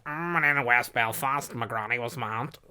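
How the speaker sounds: lightly imitating a Belfast comic; Belfast comedian impression. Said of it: "you know that guy that was all".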